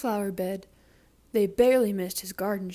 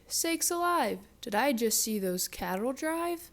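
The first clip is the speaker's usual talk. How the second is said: mock shout; 2 semitones higher than usual. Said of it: "The sheriff shouted".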